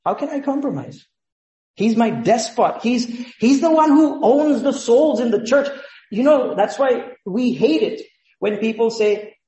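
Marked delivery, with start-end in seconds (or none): 0.1-5.7 higher, louder, impassioned cry of loyalty; fervent believer. Retold or imitated. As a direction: proclaim it like a vow you'd die for. Voicing a devoted believer's vow.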